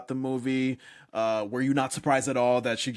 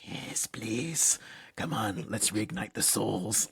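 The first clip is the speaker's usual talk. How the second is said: whispery, witchy put-on voice; Aunt Gladys; 5 dB quieter, slower than usual. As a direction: coax softly like a creepy witch. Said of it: "my witchy Aunt Gladys just being like".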